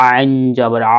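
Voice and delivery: "আ" made from a squeezed middle throat; squeezed-throat ayn. Shown as a demonstration. Teacher demonstrates the ayn sound, throat pressed on "আ". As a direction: press the throat on "আইন" and hold "আ". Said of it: "গলাটা চেপে".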